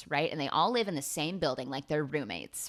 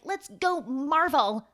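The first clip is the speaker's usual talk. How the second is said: mocking fan; 9 semitones higher, 5 dB louder, slower than usual. Mocking fans.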